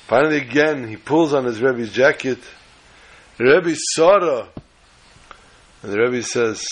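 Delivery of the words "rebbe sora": higher, slow, drawn-out call; insistent child's call. Retold or imitated. Child pulls the Rebbe's jacket, calling insistently. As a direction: call out to get the teacher's attention.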